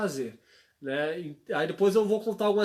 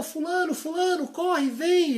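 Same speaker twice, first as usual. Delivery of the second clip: put-on high-pitched call to a child in the street; calling the kid in from the road, pitched way up; 10 semitones higher than usual. Father calls his son off the street, high calling out.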